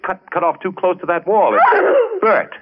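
the thrill of cracking the puzzle, breaking high; excited discovery. Acted. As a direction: voice jumping up with a laugh. Architect suddenly solves the room.

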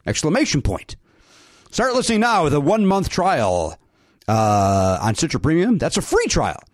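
upbeat fast sponsor read. Acted. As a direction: sell it like a radio spot. Host reads sponsor ad.

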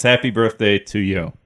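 sincere. Real, not acted. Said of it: "I meant that in earnest".

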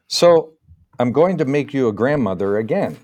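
proud announcement, bursting out on the first word; proudly declaring he'll make her a grandmother; loud and proud. Retold or imitated. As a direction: tell her the big news with pride. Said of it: "I said, loud and proud".

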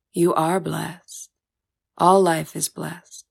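unhurried, solemn benediction; a spirit elder blessing the girl, slow and calm. Acted. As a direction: lay each word down slowly.

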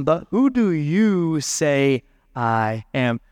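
slow, drawn-out question leaning on "you"; pointed question. Acted. Jesus asks his disciples directly, slowly stressing "you". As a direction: stretch "you" to turn the question on them.

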